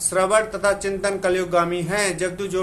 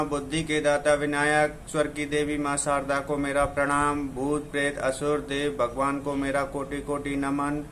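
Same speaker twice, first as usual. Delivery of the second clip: measured, chanting poetic delivery; devotional poem recitation. Acted. Reciting mantras before his poem, solemn recitation. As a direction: recite like a temple invocation, steady and solemn.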